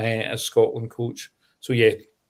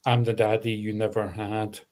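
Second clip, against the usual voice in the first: stern daddy figure; 4 semitones lower than usual. Retold or imitated. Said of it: "I think Franco is strong".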